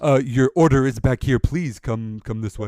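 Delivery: a touch of anxious urgency; urgent nervous plea. Acted. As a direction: beg them into the back room. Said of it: "He is terrified".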